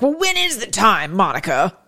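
a hint of someone demanding their country back; mock impatient viewer. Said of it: "some of you are like".

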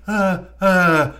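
wordless monster moans; Frankenstein's grunts.

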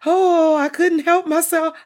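high, loud, exaggerated oops; hammed-up monster apology. Monster excusing the bite, hammed-up high apology. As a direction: ham up a fake sorry.

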